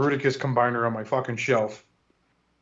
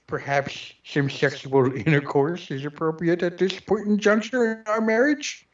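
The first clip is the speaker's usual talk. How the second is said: stiff, overly formal nerdy voice; nerd voice; 3 semitones higher than usual. Retold or imitated. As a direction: speak like a pompous know-it-all. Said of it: "if I pull out the nerd voice".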